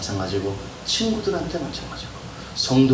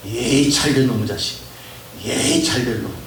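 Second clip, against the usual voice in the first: loud fake scolding with blessings; mock scolding; 5 dB louder than usual. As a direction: scold loudly but bless the boy. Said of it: "이렇게 욕하는 거예요". (큰소리로 야단치듯 축복하는 욕)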